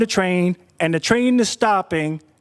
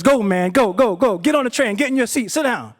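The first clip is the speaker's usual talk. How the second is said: higher, pressing hurry-up commands; urgent hurry-up; 4 semitones higher than usual. Retold or imitated. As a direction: rush him onto the train. Conductor rushes narrator aboard.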